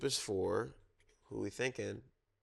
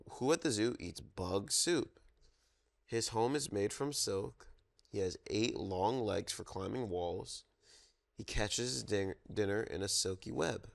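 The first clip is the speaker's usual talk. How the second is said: storytime reading. Acted. Reads zoo picture book aloud.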